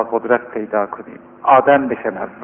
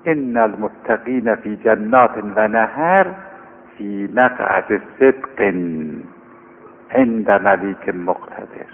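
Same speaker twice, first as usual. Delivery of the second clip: Quran recitation; slower than usual. Acted. Quran verse recited slowly.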